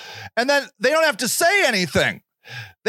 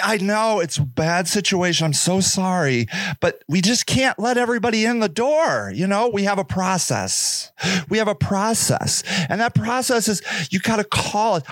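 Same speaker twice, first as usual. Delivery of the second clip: patronizing clerk voice; 3 semitones lower than usual. Retold or imitated. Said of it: "shelter worker voice".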